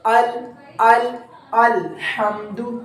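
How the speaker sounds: अल repeated, then अलहम्दु very slowly; slow recitation. Shown as a demonstration. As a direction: drill अल and build it into अलहम्दु. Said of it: "Hamza ज़बर लाम अल".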